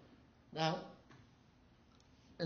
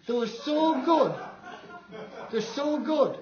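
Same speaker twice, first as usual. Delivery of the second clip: laughing through it, a touch louder; 9 semitones higher, 4 dB louder, slower than usual. Real, not acted. Raving about the Magnaplaner speakers, laughing delight. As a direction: chuckle while praising the speakers.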